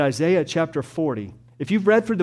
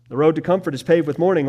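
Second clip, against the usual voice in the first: louder and fast, driving it home; punchy, fast preacher's emphasis; emphatic restatement; 2 semitones higher, 5 dB louder, faster than usual. Shown as a demonstration. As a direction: press the point with force.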